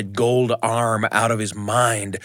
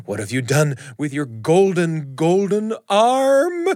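fearful; 5 semitones higher than usual. Acted. Husband's last terrified question.

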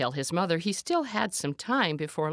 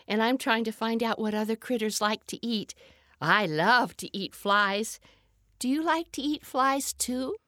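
polite little frog; 5 semitones higher than usual. Acted. Frog introduces himself to deer.

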